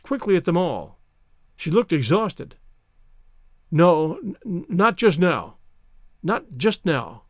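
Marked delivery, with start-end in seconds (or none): 3.7-7.2 stammering. Acted. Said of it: "she stammered".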